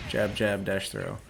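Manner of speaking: ordinary talk, nothing marked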